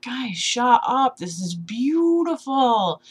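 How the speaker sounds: gushing hush. Retold or imitated. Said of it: "And I was like".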